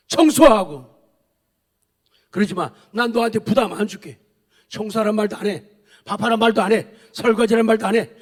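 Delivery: preacher voicing the devil's coaxing; devil's whisper. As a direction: lure them into an easy life like the devil. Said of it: "세상의 마귀의 속삭임이에요".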